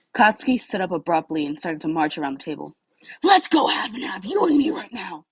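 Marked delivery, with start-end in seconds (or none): 3.2-5.2 high, loud shouted challenge; challenging shout. Acted. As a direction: call him out to fight, loud. Shoto challenging Bakugo to fight.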